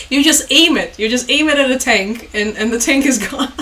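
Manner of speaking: amused, hurried mock quote ending in a laugh; laughing mockery. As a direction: rattle off the quote while cracking up. Mocking Trump's tank remark, laughing.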